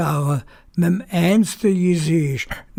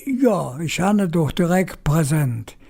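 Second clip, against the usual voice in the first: ordinary delivery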